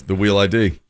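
"real" said as "wheel"; imitated speech impediment. Quoting the woman's words back, imitated R-to-W impediment. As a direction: swap the R for a W in "wheel". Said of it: "The R's".

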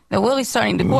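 R turned to W in REALLY, so it sounds like "Willie"; mimicked speech impediment. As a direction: retell it with her weak, W-like R. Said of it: "she has a speech impediment".

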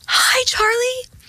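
high breathy whisper from behind; creepy stranger whisper; whispered greeting. Retold or imitated. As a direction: whisper the name sweetly, high up.

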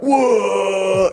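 high startled whoa; startled teens. Retold or imitated. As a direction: mimic teens jumping back from the dog. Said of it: "all the teens like".

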